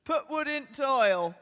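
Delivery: slow careful Yorkshire "Put wood into oil"; Yorkshire accent. Shown as a demonstration. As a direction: try the Yorkshire phrase again, slowly. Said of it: "Try that again".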